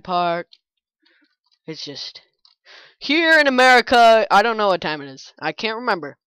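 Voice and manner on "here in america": being chased. Real, not acted. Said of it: "I'm getting chased right now".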